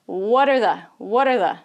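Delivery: "What are the" said as one word, "wudder-the"; words joined together. Shown as a demonstration. English teacher drilling linked speech, words all joined. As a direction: blend "What are the" with no gaps. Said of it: "This is all going together".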